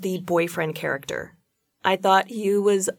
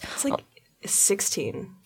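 whisper; 9 dB quieter, slower than usual. Real, not acted. Whispered correction aside.

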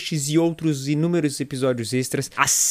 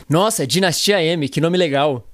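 staged reaction line. Shown as a demonstration. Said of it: "Vou falar umas frases aqui".

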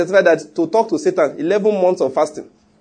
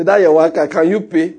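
teasing retort; 3 dB louder than usual. Retold or imitated.

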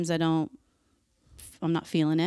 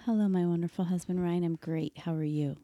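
sultry perfume ad; 3 dB quieter than usual. Acted. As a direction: purr it like a perfume ad. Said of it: "talk in that sultry voice".

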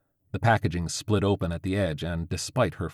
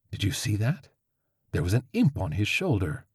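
urgent; 2 semitones higher than usual. Acted. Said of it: "Crovis said urgently".

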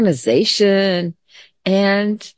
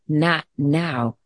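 calm, not screamed; 3 semitones lower, 3 dB quieter than usual. Shown as a demonstration. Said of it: "you don't have to scream it".

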